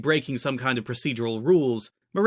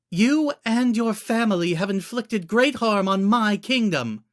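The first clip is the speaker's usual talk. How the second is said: higher, louder, slow cold anger; snapping queen; 9 semitones higher, 4 dB louder than usual. A narrator's reading. Queen rebuking the prisoner, high sharp snap. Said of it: "Zelda immediately snapped".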